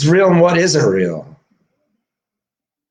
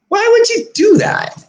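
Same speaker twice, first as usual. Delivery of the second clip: exasperated shout. Real, not acted. Ranting at people online, shouting in disbelief. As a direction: yell it at the screen in frustration.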